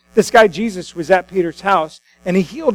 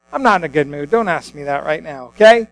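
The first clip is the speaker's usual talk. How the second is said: grumpy fisherman; 4 semitones lower than usual. Acted. Fishermen grumbling after catching nothing.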